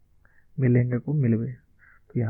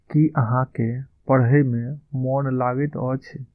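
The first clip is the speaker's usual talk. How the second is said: slow, deliberate Maithili model line; slow model phrase; 3 dB louder, slower than usual. Shown as a demonstration. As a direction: lay each word out slowly for the class. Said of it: "Maithili में इसका हम उच्चारण इस तरह से करेंगे".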